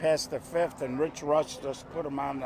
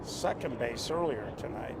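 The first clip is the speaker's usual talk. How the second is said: golf announcer voice; 8 dB quieter than usual. Acted. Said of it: "I'm gonna go to my golf announcer voice".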